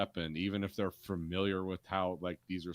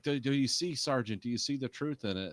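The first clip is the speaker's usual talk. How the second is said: higher-pitched, eager imitation of a preacher; excited pastor; 6 semitones higher than usual. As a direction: press the question with mock religious excitement. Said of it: "the pastor's really excited".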